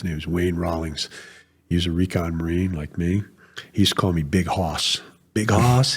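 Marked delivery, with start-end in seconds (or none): 5.3-5.9 higher-pitched Southern drawl; Southern accent. Retold or imitated. Old recon Marine calling his buddy by nickname, Southern accent. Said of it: "He went, yeah, really Southern accent".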